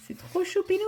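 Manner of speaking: squealing at something too cute; cutesy gush. Real, not acted. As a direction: coo over something adorable. Gushing over a cute drawing.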